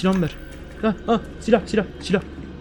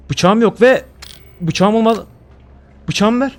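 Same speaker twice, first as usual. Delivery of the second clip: panicky plea; 6 semitones higher, 3 dB louder, slower than usual. Real, not acted. Still desperate for knife.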